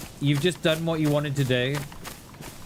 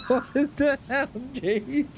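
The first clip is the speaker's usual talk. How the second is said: laughing disbelief; 8 semitones higher, slower than usual. Real, not acted. Laughing at the friend's photo.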